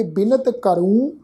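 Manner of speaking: slow ਕਰੂੰ with a nasal long oo ending; nasalised ending. Shown as a demonstration. Teacher demonstrating first-person verb, nasal ending on ਕਰੂੰ. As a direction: draw out ਬਿਨਤ ਕਰੂੰ, nasalising the final vowel of ਕਰੂੰ. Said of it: "ਬਿੰਦੀ ਲਗਾ ਕੇ ਪਾਠ ਉਚਾਰਨ ਕਰਾਂਗੇ".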